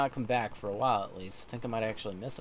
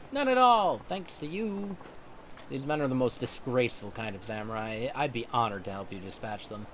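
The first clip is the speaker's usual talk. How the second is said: Tom, grateful samurai. Acted. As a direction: answer the sensei with honor. Tom answers sensei.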